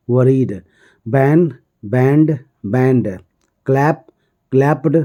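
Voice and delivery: each verb form said separately with pauses, "begged, copied, dried"; model pronunciation drill. Shown as a demonstration. Teacher drilling verb forms for students to repeat, measured listen-and-repeat delivery. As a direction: recite "skip, skipped, skipped" carefully for repeating. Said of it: "आप लोग ध्यान से सुनेंगे और याद मेरे साथ".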